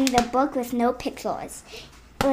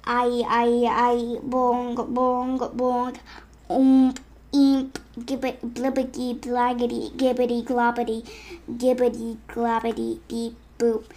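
slow nonsense babble; silly gibberish; slower than usual. Acted. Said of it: "make silly sounds like".

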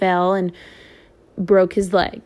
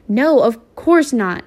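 a mild hurried denial, louder and higher; quick denial; 4 semitones higher, 3 dB louder than usual. Acted. Stacy reassuring his scared little brothers, hurried denial. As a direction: brush off the fear a bit too fast. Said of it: "Stacy denied too quickly".

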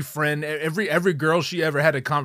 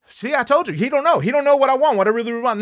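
put-on higher, louder girlfriend voice complaining; whiny girlfriend; 8 semitones higher, 7 dB louder, faster than usual. The girlfriend complains to the therapist in a high, louder whine.

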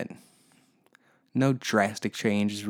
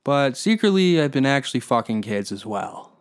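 mock-earnest politician, pitched way up; mock Hillary Clinton; 3 semitones higher than usual. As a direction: insist in a hammed-up high voice. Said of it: "and then she was like".

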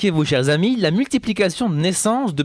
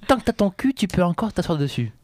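amateur northern French ch'ti imitation; imitated ch'ti accent. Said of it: "Tu fais très bien l'accent ch'ti".

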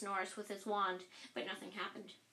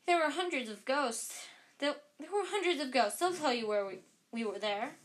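higher, louder, eager to be believed; urgent explaining; 4 semitones higher, 4 dB louder than usual. Acted. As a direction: kids rushing their alibi.

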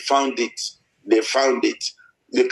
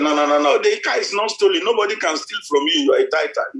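higher, pressing insistence; emphatic reassurance; 4 semitones higher, faster than usual. Retold or imitated. Pastor telling his crying daughter, raised emphatic insistence. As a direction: insist the car is not stolen.

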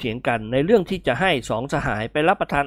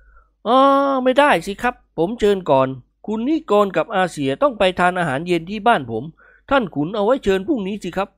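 higher-pitched polite objection; rival host protesting; 6 semitones higher than usual. Acted. Second gentleman claiming the guests, politely insistent. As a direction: insist on being first to invite.

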